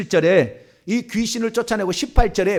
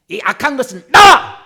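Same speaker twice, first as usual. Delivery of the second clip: loud order bursting at the end; direct command; 4 semitones higher, 10 dB louder than usual. Shown as a demonstration. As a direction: order it out with a sudden shout. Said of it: "직접 명령해도 돼요".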